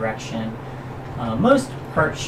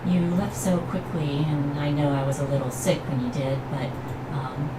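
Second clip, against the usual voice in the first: high, light forest spirit voice; dryad voice; 4 semitones higher than usual. Acted. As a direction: speak as a gentle dryad through a bird. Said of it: "then gets to speak".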